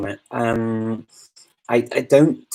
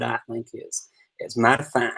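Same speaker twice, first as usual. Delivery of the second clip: folksy American accent, softer; American regional accent; 5 dB quieter than usual. Shown as a demonstration. Showing viewers one more American accent, folksy regional American. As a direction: put on a folksy American twang.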